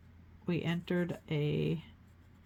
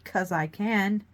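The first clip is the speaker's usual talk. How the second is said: defiant; 3 semitones higher, 7 dB louder, slower than usual. Pretend. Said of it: "that's what I'm gonna say".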